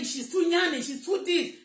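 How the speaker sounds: high, scornful mimic of people who judge her; quoting critics in a mocking high voice; mocking gossip voice. She mimics people calling her too yanny, mockingly high. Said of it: "People say".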